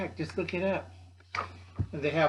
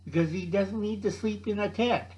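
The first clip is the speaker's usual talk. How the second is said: put-on higher whispered kid complaint; whiny kids; 4 semitones higher than usual. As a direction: complain under your breath like a kid. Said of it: "They say".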